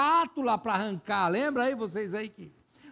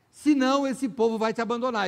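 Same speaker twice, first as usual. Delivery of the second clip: blunt Joab; 4 semitones higher, 5 dB louder than usual. Retold or imitated. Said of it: "que ele fala".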